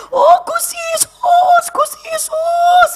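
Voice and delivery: very high, drawn-out cry; long high-pitched chanting call; imitated villagers calling out. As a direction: wail the name slowly like a fervent crowd.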